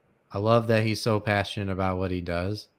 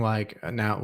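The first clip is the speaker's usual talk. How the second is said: voice crack; 4 dB quieter than usual. Real, not acted. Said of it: "ooh, voice crack".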